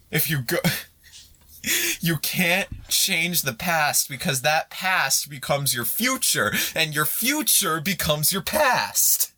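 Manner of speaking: slow, solemn quote from the film; movie quote. Retold or imitated. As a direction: deliver it like a dramatic movie line. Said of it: "a phrase from Endgame".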